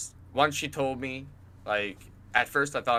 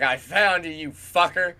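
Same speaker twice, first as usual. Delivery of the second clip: loud, high-pitched retold accusation; gloating callout; 7 semitones higher, 8 dB louder than usual. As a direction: call out the culprit in triumph. Retells confronting the spammer.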